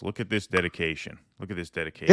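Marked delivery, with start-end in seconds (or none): 1.4-2.1 louder, showy second take; mock proud announcement. Shown as a demonstration. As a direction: play up the dedication boastfully. Repeats line louder, mock pride.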